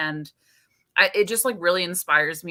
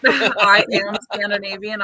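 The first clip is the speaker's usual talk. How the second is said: put-on Scandinavian accent; 3 semitones higher, 6 dB louder than usual. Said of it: "I'm allowed to use that accent".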